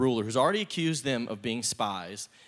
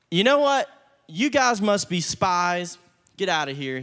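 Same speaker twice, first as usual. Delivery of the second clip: angry accusation; 5 semitones higher, 6 dB louder than usual. Acted. Joseph accuses brothers of spying.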